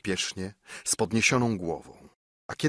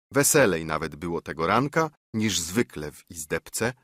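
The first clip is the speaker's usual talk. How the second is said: ordinary delivery, nothing marked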